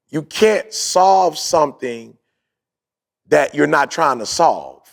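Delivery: each word laid out slowly for the listeners; slow, deliberate repeat. Shown as a demonstration. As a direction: spell it out slowly so they catch it. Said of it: "I'm gonna say that again".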